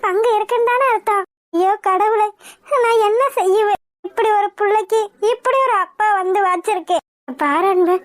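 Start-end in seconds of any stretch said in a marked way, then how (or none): 1.5-7.0 wailing with a catch of tears; crying lament. Acted. Mother lamenting her husband's sins, crying. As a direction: cry out to God in despair.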